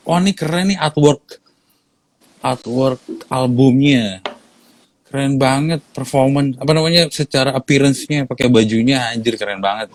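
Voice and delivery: high, excited gushing; impressed listener. Retold or imitated. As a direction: gush over the album.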